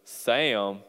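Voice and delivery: put-on Southern accent, name stretched out; lightly imitated Southern "Sam"; Southern drawled name. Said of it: "has three syllables in Southern".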